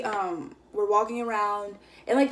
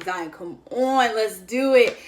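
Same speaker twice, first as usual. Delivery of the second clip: louder, slower pushy plea; insistent urging; 5 dB louder, slower than usual. Retold or imitated. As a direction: push him harder, louder. Second, pushier attempt.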